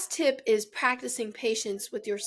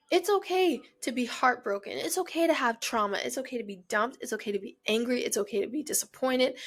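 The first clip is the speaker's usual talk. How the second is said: soothing reassurance. Real, not acted. Soothing viewers about their pain.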